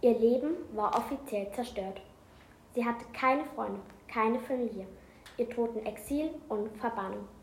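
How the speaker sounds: reading a book aloud; steady read-aloud narration; story narration. A narrator's reading. Reads an excerpt aloud.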